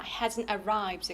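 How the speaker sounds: "Hasn't arrived" slowly, both words stressed; stressed negative and verb. Shown as a demonstration. Teacher models the delay notice, stressed "Hasn't arrived". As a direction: give "Hasn't" and "arrived" each a firm beat. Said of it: "강세죠".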